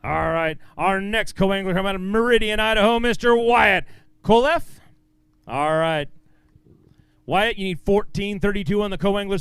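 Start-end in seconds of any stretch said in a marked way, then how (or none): 0.8-4.6 stage announcer. Real, not acted. Emcee calls the next co-angler to the stage, announcer style. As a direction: build to the name, louder at the end.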